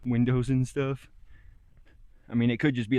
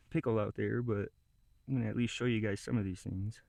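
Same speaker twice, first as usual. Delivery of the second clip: runny nose, sniffling while talking; 4 dB quieter than usual. Real, not acted. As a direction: talk through a sniffly nose. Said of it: "Sorry about my sniffling".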